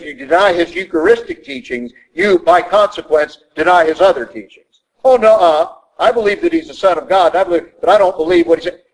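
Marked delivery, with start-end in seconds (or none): 5.0-8.8 mocking a doubter's excuse, higher and fast; hammed-up voice of a cafeteria believer; brushing off the hard teaching.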